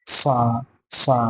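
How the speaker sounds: সা with the tongue touching the upper teeth. Shown as a demonstration. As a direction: say সা, tongue tip up against the top teeth. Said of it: "জিভটা একটু উপরের দাঁতের দিকে লাগাতে হবে".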